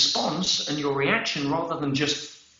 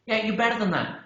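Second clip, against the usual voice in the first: wake-up call; 6 semitones higher than usual. Real, not acted. Urging listeners out of autopilot.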